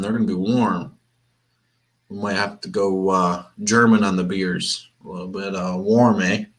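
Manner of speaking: lightly Canadian, ending on eh; a hint of Canadian accent, eh. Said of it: "why did I say that in a Canadian accent".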